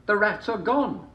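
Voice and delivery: high and slow, smug and dismissive; drawn-out, self-satisfied shrug of a line; villagers smug. A narrator's reading. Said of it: "they asked each other".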